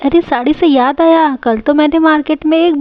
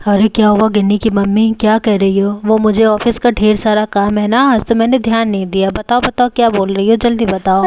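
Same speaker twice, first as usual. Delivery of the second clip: lightly voiced busy father; 2 semitones lower than usual. Busy husband answering his wife, lightly voiced father.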